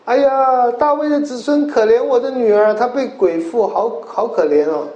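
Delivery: high pleading wail; pleading cry. Acted. Canaanite woman crying after Jesus, high desperate plea. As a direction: beg desperately for the daughter.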